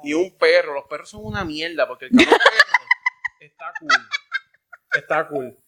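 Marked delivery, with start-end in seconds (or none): 2.4-3.3 high squealing burst of laughter; shrieking laugh. Real, not acted. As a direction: break into a shrill cackle. Laughs mid-rant about dogs. (carcajada aguda)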